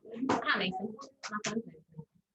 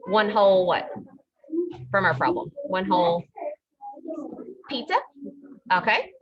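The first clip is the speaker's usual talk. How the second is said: muffled behind a mask, raised voice; through a face mask; 5 dB louder than usual. Real, not acted. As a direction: speak up through a cloth mask. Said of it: "it's hard to hear with the mask on".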